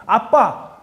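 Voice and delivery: put-on high, loud whiny child voice; little son whining. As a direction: whine at dad like a small boy. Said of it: "우리 정우가 와서".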